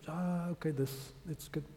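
soft, forgiving reassurance; gentle acceptance. Retold or imitated. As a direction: wave it away kindly, very softly. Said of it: "and Jesus just said".

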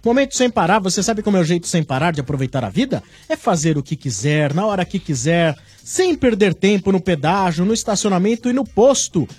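radio sponsor announcement; ad read. Acted. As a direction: read the sponsor spot brightly.

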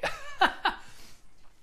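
short high laugh at himself; embarrassed laugh. Real, not acted. Coach apologizing to viewers, laughing at himself. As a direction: laugh off getting carried away.

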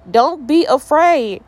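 drawn-out, projected reassurance; acted reassurance. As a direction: call out slowly to frightened friends. Voices Jesus calming the disciples.

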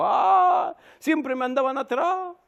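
high mock complaint of the younger daughter; hija quejosa. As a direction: whine theatrically about the old folks. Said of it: "¿Cómo recordará el hogar?". (queja exagerada de hija, voz aguda)

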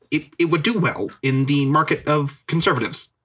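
hesitant, stammering mock pundit; a hint of a conservative pundit; Ben Shapiro impression. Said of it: "I will be doing that impression".

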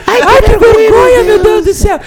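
high, slow squeal through laughter; squealing embarrassment. Pretend.

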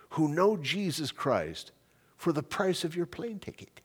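lightly imitated Indian accent, slow and deliberate; measured phrase by phrase in a mild Indian accent; little Indian accent. Missionary leader reasoning with an eager pastor, little Indian accent. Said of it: "in his little Indian voice".

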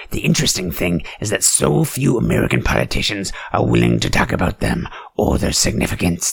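usual speaking voice

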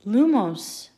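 loud, high triumphant incantation; spell shout. A narrator's reading. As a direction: call out the spell proudly.

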